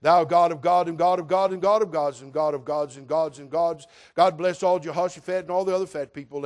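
lightly voiced preacher praying; a hint of a long-winded uncle praying; rambling prayer. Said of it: "he's gonna get caught up".

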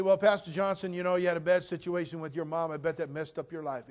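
voicing a skeptic in the pews; imagined congregant. Pastor voicing a skeptic in the pews, mock doubtful. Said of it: "You say".

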